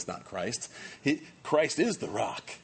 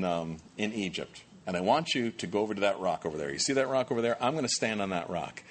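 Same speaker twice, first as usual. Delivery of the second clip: calm God voice; 4 semitones lower than usual. Retold or imitated. God gives instructions calmly.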